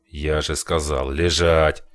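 shouted order. Acted. Gunman repeats order.

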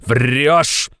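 high, loud impatient exclamation; impatient cry. Acted. Razumikhin impatiently rejecting Raskolnikov's no, crying out. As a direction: snap it out impatiently. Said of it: "нетерпеливо вскрикнул Разумихин".

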